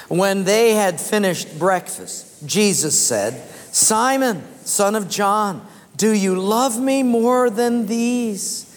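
slow, measured reading aloud; scripture reading. Real, not acted. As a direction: lead a congregation reading the verse together, slowly. Reads scripture aloud with congregation.

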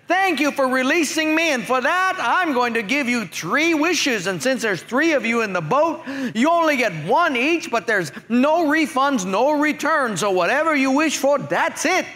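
mild genie announcing the wishes. Acted. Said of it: "this Christian genie comes out and she says".

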